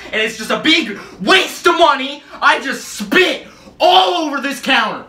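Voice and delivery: loud laughing outburst. Real, not acted. Laughs after spitting on counter.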